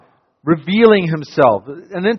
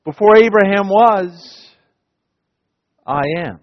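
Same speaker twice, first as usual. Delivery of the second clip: understated, intimate I am; quieter Jesus voicing; 2 semitones higher than usual. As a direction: say it the way you imagine him. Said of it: "I imagine".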